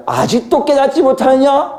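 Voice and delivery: high, drawn-out reproachful question; acted high-pitched reprimand; exasperated rebuke. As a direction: scold in a high, stretched-out voice. Acting Jesus's rebuke of disciples.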